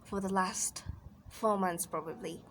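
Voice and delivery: lightly acted, conversational job-seeker monologue; frustrated job seeker. Rejected applicant recounting a failed interview, mildly exasperated.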